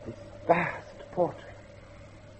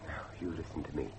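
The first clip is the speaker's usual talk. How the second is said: low urgent demand; 11 semitones lower, 9 dB quieter than usual. Acted. Guest demands the truth.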